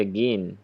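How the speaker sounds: "again" said as the stressed "GIN" of begin; stressed syllable isolated. Shown as a demonstration. Teacher points at the stressed part, second-syllable stress. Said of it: "So second syllable".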